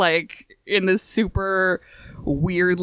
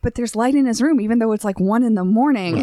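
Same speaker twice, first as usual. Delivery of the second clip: mock indignation; 4 semitones higher than usual. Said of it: "he's so mad".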